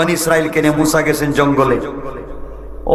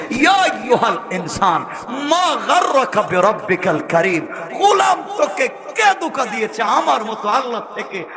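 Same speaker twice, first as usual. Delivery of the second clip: lamenting plea; 4 semitones higher than usual. Acted. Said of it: "আফসোস করে কেঁদে কেঁদে বলছেন".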